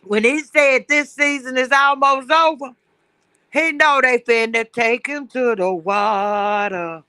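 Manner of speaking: glitchy robot-like call line; words breaking up over a bad connection; robotic phone audio. Real, not acted. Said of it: "you sound like a robot".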